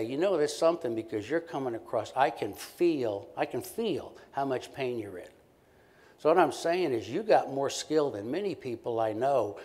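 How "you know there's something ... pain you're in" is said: meet her pain head-on, earnestly; sincere and direct. Shown as a demonstration. Therapist acknowledging a mother's pain, sincere and steady. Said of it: "We're much more likely to say".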